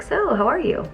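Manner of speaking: mock catch-up with nothing to say; stilted pretend pleasantries; imitating awkward small talk. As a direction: act out both sides of an empty friendly exchange. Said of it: "When I go to catch up with friends".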